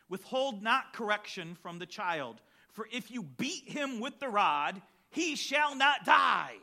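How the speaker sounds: reading steadily, then shouting the last line; preached verse building to a shout. Acted. Preacher reading Proverbs to parents, rising to a shout. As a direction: build the verse and bang out the ending.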